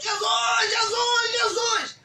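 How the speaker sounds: long, high-pitched calls, drawn out; imitated crying out. Blind man calling Jesus over the crowd, crying out. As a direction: call out imploringly, stretching each name. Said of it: "E começou a gritar. E mais alto".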